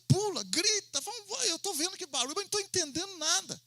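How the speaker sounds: high mock-excited call; mock excited preacher. Mocking noisy church services. (imitação de pregador agitado, voz bem aguda)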